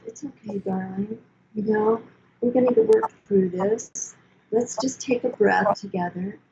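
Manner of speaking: gentle, soft soothing self-talk; speaking kindly to yourself. Shown as a demonstration. Talking herself through a moment of stress, gently soothing. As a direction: comfort yourself like a dear friend, softly. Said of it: "you must learn how to speak kindly to yourself".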